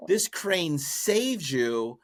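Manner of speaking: high, drawn-out mock reproach; scolding wife. Wife goes off on husband over the crane, scolding. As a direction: scold him slowly with voice lifted. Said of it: "she was going off on him".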